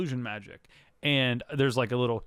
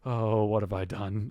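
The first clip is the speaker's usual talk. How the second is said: low, slow mock gasp of horror; understated gasping realization, voice dropped; imitated gasping dismay; 5 semitones lower, slower than usual. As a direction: draw it out, aghast, as a retelling. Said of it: "Elliot is sort of, like, gasping".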